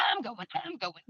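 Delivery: lightly voiced comic character; a hint of quirky character voice; Toot Toot. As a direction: imitate a funny audiobook character. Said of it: "like, what he's saying".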